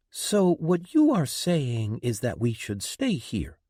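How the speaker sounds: sharp, accusing challenge. A narrator's reading. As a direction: pin him down with it. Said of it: "Linda accused".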